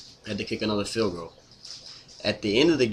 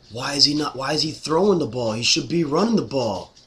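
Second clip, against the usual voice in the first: whiny fan imitation, higher and louder; mocking complaining fans; 5 semitones higher, 4 dB louder than usual. Fan mocks other fans who griped about passing, whiny mock voice. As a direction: mimic griping fans demanding the run. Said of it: "We all bitched about it".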